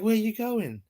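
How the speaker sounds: imitating Sully's talk. Went to work talking like the movie, creepy imitation. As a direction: slip into the creepy man's drawl. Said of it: "you come out talking like that".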